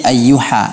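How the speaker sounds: ayyuha with a light plain h; imitating the student's swapped ha; ha read as ha. Shown as a demonstration. Teacher imitates the student's wrong ha. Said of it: "dibaca menjadi".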